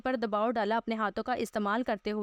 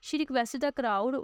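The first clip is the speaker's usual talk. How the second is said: very slow reading aloud; much slower than usual. Shown as a demonstration. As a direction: spell the English out slowly, word by word. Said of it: "teacher reads the English text".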